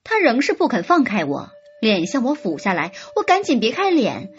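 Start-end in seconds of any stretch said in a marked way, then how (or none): none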